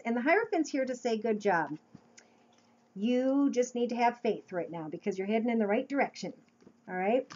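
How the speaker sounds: talking while chewing gum; words round a piece of gum. Real, not acted. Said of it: "Pardon my gum".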